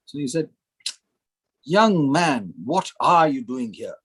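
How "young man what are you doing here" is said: lightly imitated perfect English accent. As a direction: quote him in crisp British English. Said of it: "in a perfect English accent".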